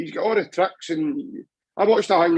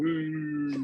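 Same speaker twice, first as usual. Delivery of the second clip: mock crowd groan; 9 dB quieter than usual. Fan imitating the crowd turning on Mikey, soft mock groan. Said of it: "like that".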